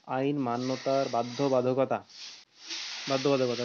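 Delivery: slow, word by word dictation; dictating. Shown as a demonstration. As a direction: say the heading slowly to be written. (ধীরে ধীরে শ্রুতলিপি বলা)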